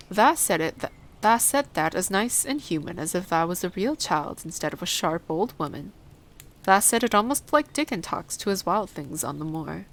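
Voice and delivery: a hint of rustic dialect, astonished; lightly voiced Yorkshire gardener, surprised. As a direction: lightly play the amazed old gardener.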